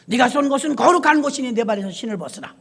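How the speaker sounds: a fuller, ringing command with 거룩한 stressed; solemn proclamation. Acted. God commanding Moses to take off his shoes, full and solemn.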